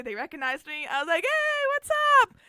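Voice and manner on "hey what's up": high, loud breezy hey; cocky greeting. Retold or imitated. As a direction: greet them like a celebrity. Retold cool greeting, high.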